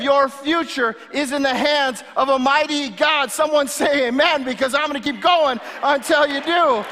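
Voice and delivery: preaching at full force; rousing the congregation to rise up; fiery revolutionary speech. Acted. Climactic Easter sermon preaching.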